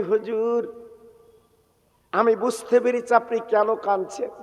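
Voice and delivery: softly voiced wife's plea; gentle asking. Wife beside her weeping husband, gently asking. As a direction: drop to a soft, tender question.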